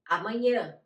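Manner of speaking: "amanhã" with closed, nasal A sounds; nasalised final vowel in "amanhã"; nasal Portuguese A. Shown as a demonstration. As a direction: say "amanhã" in Portuguese, ending through the nose. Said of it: "como decimos en portugués".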